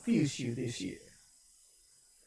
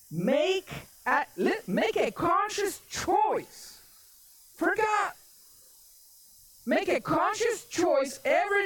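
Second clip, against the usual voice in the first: high, deliberate sermon appeal; exhorting preaching; 8 semitones higher than usual. Acted. Preacher urges congregation to choose God, exhorting preaching. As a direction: preach it high, stretching the key words.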